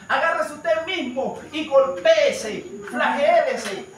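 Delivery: slow, emphatic quoted command; quoted preacher's exhortation. Retold or imitated. Preacher quoting another man's advice to the congregation, emphatic exhortation. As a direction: draw out each order with force. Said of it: "me gustó cuando él se expresó".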